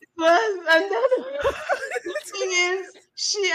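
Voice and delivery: high, laughing and half crying; embarrassed laughter in every word; laughing while talking. Real, not acted. Laughing while telling embarrassing story.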